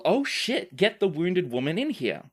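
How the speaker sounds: lightly voiced alarmed healer; a hint of a flustered temple healer; quoting Annie's character. GM retelling Annie's first line, mild mock alarm. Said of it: "says something to the effect of".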